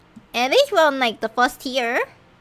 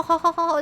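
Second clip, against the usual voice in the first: villain laugh attempt; 6 semitones higher, faster than usual. Shown as a demonstration. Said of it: "I really cannot do the ho".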